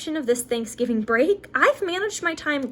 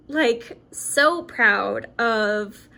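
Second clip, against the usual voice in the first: choked up; much slower than usual. Real, not acted. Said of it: "I did not think I was gonna get emotional".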